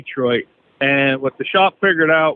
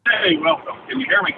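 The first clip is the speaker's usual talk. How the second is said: far from the phone; 5 semitones higher than usual. Real, not acted. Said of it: "You sound like you're across the room".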